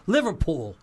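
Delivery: brief stab at a Liverpool accent. Shown as a demonstration. American guest showing her one British accent, mock Liverpool accent. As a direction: have a playful go at Scouse. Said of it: "'Cause that's my only".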